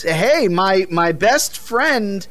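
lightly mocked gushing show host; Keighley. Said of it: "Keighley, you know".

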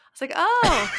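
laughing. Real, not acted. Laughing at the politics joke.

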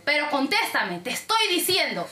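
imitating an upset caller, slow and insistent; mildly heated mock demand; retold angry demand. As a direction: press for an answer as the irritated client. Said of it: "muy molesto y gritándome".

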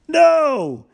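emphatic no. Real, not acted. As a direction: shut the idea down hard. Teacher rejects waiting till tomorrow.

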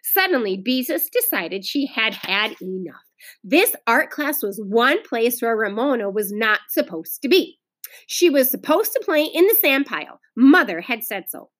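lively read-aloud with lilting pitch; storybook reading for children; story narration. A narrator's reading. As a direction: read the story expressively to a class. Teacher reads story aloud.

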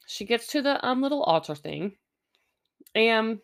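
chewing while talking; mouth full. Real, not acted. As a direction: talk through a mouthful of food. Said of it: "wow, I am chewing in the microphone".

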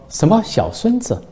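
put-on startled that anyone calls the child his grandson; surprised. Old man baffled by the reporter's question, surprised. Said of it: "老大爷诧异地说".

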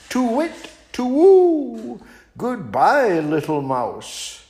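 very high, hooting owl, sly and sweet; a sugary high owl inviting the mouse to tea. Acted. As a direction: coo like a crafty old owl luring its dinner. Owl flees.

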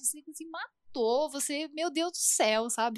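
mock disbelief at her friend, half-laughing; exasperated retort. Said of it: "Eu falei".

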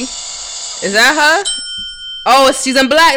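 slow, high surprised question; excited. Real, not acted. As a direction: stretch it out, amazed. Excited reaction.

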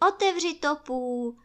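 high, loud clamour; excited calling out. A narrator's reading. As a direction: call out eagerly from the crowd. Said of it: "neboť všichni volali".

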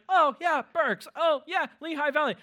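high, light imitation of a local; playfully aping a snooty neighbor; a hint of a dismissive local; mock local. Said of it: "somebody's like".

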